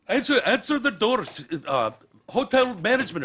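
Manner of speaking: high, loud demanding manager voice; hotel manager. Retold or imitated. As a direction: hammer the order at the door.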